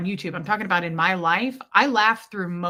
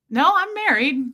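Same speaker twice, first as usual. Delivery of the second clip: quick correction; 7 semitones higher, 5 dB louder than usual. Retold or imitated. Guy correcting her.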